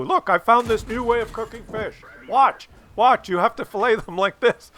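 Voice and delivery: a hint of a proud dad demonstrating; imitating eager dad.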